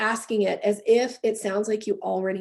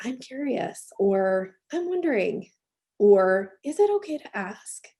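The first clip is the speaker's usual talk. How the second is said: gentle, cushioning tone, each phrase eased out slowly. Showing how to say softening phrases before a question: softened voice. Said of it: "Notice how I soften my voice every time".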